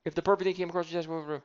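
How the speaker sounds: mock nervous, over-apologetic salesperson; lightly voiced fumbling salesman; pleading salesperson. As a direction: beg and ramble like a timid caller. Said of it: "you're acting like an idiot".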